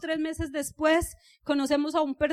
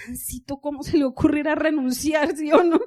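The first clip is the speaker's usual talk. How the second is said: laughing exasperation; 3 dB louder than usual. Retold or imitated. Muttering exasperated thought, laughing.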